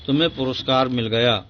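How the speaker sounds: fast, pleased exclamation of praise; fast happy praise for a prize; delighted praise. Shown as a demonstration. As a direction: cheer the award news quickly. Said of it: "बहुत खूब".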